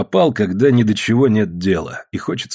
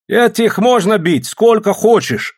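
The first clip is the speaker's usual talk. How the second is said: higher, louder, slow gloating jeer; cruel policeman; 12 semitones higher, 4 dB louder, slower than usual. A narrator's reading. Policeman Ibalka to the crowd about the women, slow gloating. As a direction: relish the cruelty.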